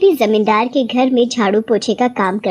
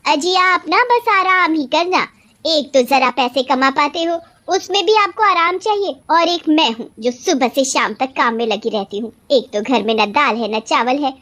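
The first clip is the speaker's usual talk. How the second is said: nagging wife, mildly angry; annoyed scolding; 5 semitones higher than usual. Acted. Wife berates husband for resting while supplies run out, annoyed. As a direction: scold the husband with rising exasperation. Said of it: "काहे को इतना गुस्सा करती हो".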